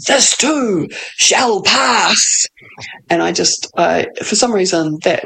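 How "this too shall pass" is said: slow, lightly voiced wizard's pronouncement; Gandalf voice. Reassuring herself in a lightly voiced, slow wizard tone. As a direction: stretch each word out like a faintly imitated old wizard. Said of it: "So I hear that voice saying".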